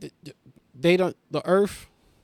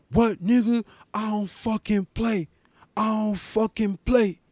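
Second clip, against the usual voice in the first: raised, hard-edged tough-guy voice; menacing repeated threat; 6 semitones higher than usual. Retold or imitated. Stranger threatening the comedian on the street, tough and menacing. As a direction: play the stranger daring a fight, insistent. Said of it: "he just kept saying that over and over".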